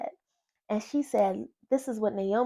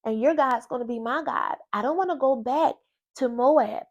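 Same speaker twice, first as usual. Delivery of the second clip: earnest pleading Ruth; 4 semitones higher, 3 dB louder than usual. Retold or imitated. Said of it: "She said".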